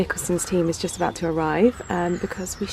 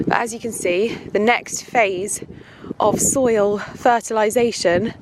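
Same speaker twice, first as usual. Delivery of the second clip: raised voice outdoors over the wind; shouting over wind; 4 dB louder than usual. Real, not acted. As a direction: project over the wind in a field. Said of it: "I hope you can hear me over the wind".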